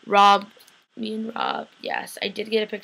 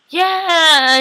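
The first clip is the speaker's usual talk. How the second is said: a much higher, louder, thrilled yeah; excited squeal; 9 semitones higher, 10 dB louder than usual. Retold or imitated. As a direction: shriek yes like a giddy fan. Excited reply to a favourite actor.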